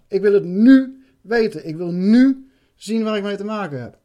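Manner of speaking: inner shout. Retold or imitated. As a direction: insist with all your will. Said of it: "In mezelf".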